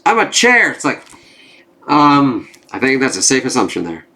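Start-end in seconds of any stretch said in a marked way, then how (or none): 0.0-0.7 much higher, louder loopy voice; dazed drugged voice. Acted. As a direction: play her high on Kraven's darts. Drugged Kamala's line.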